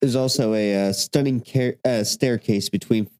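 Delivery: talking through hiccups; words broken by hiccups. Real, not acted. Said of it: "Sorry, I got the hiccups".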